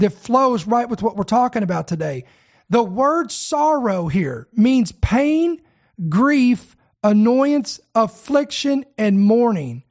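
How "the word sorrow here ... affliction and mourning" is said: slow, weighty list of words, one at a time. Shown as a demonstration. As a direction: lay out every word with a pause. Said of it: "Let me say it again".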